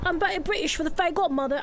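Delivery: put-on quick, playful British accent. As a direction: slip into a light British accent. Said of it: "Fairy Godmother makes me British".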